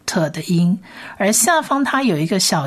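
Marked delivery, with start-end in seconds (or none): 0.1-0.8 whispered 特 the unvoiced t sound; breathy sound demo. Shown as a demonstration. Teacher shows unvoiced t to listeners, whispered demo. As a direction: let 特 come out on breath only. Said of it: "发特的音".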